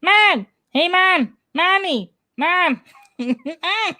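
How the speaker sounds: put-on high whiny kid calling out; child calling mom. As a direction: call for mom like an eager little kid. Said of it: "That was my nephew last weekend".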